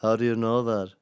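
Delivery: mock smug liberal guy; liberal dude challenge. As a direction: push back like a know-it-all. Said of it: "some liberal dude next to him goes".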